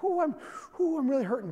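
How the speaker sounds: playful imitation of a hurting wife; mock labor pain. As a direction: breathe through it like a woman in pain, mock style. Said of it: "Kinda doing that deep breath".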